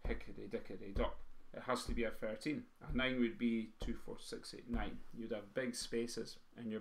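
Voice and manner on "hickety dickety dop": evenly spaced drum syllables; slightly slower roll. Shown as a demonstration. Teacher fitting a thirteen at slower speed, slightly slower roll. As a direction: voice the roll with a little more room. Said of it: "if it's a bit slower".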